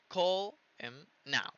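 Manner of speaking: each word drawn out slowly; slow model reading of call him now; slow careful demo. Shown as a demonstration. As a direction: spell out every word slowly. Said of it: "Todo esto se hizo muy, muy rapidito".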